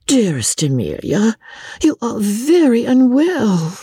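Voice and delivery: mock concern. Rebecca feigning concern.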